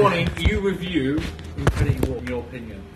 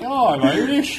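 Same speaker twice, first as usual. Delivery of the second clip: higher mock Irish accent, teasing a friend; imitating an Irish accent; 5 semitones higher than usual. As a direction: parody a friend's bad Irish accent, pitched up. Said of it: "You sound like Caitlyn doing an Irish accent".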